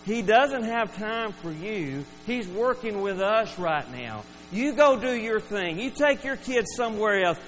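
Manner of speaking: mildly heated, emphatic dismissal of a nuisance; telling them off. Acted. Disciples to parents bringing children to Jesus, telling them off. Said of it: "they're just telling them off".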